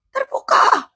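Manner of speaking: high-pitched proclamation; emphatic command. Retold or imitated. Translating Jesus' command.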